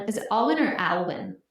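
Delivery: Alwyn said two ways, first AWL-win then AL-win; two pronunciations. Shown as a demonstration. Asking co-host how to say Joe's surname, contrasting two pronunciations. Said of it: "I'm gonna keep saying Alwyn".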